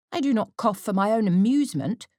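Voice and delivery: put-on a girl sulkily defending herself; fretful. A narrator's reading. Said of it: "replied Kitty fretfully".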